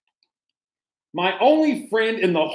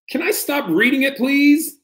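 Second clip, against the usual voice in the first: higher, quick whiny plea; mock pleading; 6 semitones higher than usual. Reader whines a pretend plea to the kids, higher. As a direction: beg like a kid. Begging to stop.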